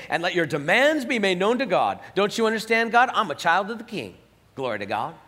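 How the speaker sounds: loud, lightly mocking Southern preacher; Southern accent. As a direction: imitate a demanding Southern believer. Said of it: "go into a Southern accent when you do that".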